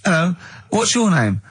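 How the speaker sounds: high chirpy greeting voice; neighbour greeting. Pretend. Character greets the radio host, high and bright. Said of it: "didn't even do the Chinese accent that time".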